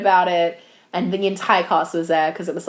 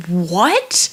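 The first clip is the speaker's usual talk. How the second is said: retold bafflement; 5 semitones higher than usual. Retold bafflement reading the monologue.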